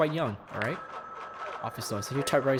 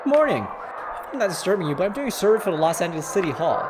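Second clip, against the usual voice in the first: put-on caller voice; 5 semitones higher, 4 dB louder than usual. Player voices survey caller.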